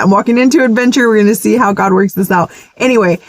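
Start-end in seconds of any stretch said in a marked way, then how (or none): 0.0-1.1 fast, bright-spirited rebuttal; cheerful fast reply to her own gloom; upbeat correction. Pretend. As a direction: snap back into optimism, quickly. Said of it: "No, I'm not".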